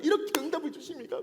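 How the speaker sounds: high, mock tearful weeping, overcome and grateful. Acting out someone thanking God for an answer, imitating tearful crying. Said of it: "막 울면서".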